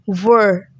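were held long on its own; stressed syllable. Shown as a demonstration. Teacher isolating the stressed syllable, drawn out. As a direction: draw out were as the stressed VER. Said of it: "The stress is on".

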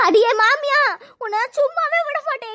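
loud, then high-pitched anguished threat; furious threat. Acted. Labouring woman threatening her mother-in-law, furious. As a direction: lash out at her in distress.

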